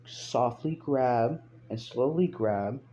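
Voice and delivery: slow, measured request with deliberate gaps; strained politeness. Retold or imitated. Cop done being nice asking for papers, strained politeness. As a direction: imitate a cop spelling it out very patiently.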